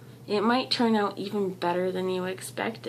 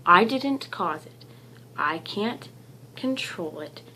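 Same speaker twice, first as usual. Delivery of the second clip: mantra, fading. Shown as a demonstration. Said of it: "One more time, my friends".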